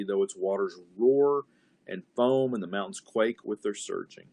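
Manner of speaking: measured reading of the psalm; closing psalm read to the group; scripture reading. Acted. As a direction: read it aloud with weight. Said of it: "let me read this one more time".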